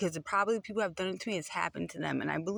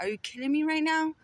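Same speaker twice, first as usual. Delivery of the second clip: much higher and a bit louder, in open disbelief; incredulous outburst; 9 semitones higher, 3 dB louder than usual. Real, not acted. Ranting at powerful abusers online, high incredulous outburst. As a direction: throw the question out like you can't believe it. Ranting about a jailed pedophile's privileges.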